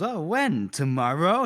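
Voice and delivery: lightly mocking, a touch of sass; a hint of sassy killer. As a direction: toss it off with mild cheek. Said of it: "He's being sassy now".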